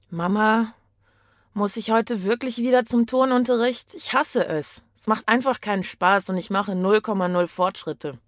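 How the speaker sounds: put-on a sulky girl begging her mother to skip gym; whiny daughter. Daughter whines to mother about gym class, sulky and pleading.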